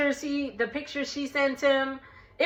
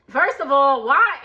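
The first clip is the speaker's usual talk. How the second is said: louder, pushing up on why; first of all, WHY, fed up; a real exasperated outburst at the show; 4 semitones higher, 6 dB louder than usual. Real, not acted.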